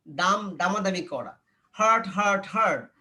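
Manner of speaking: usual speaking voice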